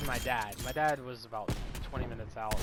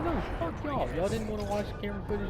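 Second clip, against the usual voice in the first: much higher and louder, an imitated furious father yelling; furious cussing out; 6 semitones higher, 5 dB louder than usual. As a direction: blow up at the school staff for blaming your son. Dad cussing out school staff.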